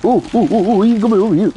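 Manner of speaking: loud, high excited ooh-ing; excited squeals. Real, not acted. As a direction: squeal as he comes closer. Excited at approaching character.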